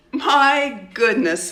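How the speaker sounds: high, slow mock outcry; cried out. A narrator's reading. Girl mocking classmate's doll, high outcry. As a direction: exclaim in delight. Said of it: "she cried".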